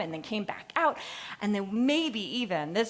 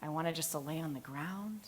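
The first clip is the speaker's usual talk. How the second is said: tired whisper; 3 semitones lower, 11 dB quieter than usual. Retold or imitated. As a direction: barely breathe out how worn out you are. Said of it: "I was like".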